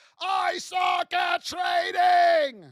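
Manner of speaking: very slow, high scream at the top of lungs. Telling viewers to shout at themselves in a mirror, demonstrate: screaming at the top of lungs. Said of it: "scream at the top of your lungs".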